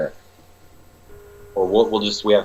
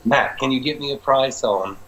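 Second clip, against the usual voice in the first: high, weak Scottish accent put on; a failed stab at a Scottish client; imitating a Scottish client, badly; 7 semitones higher than usual. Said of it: "he's actually Scottish".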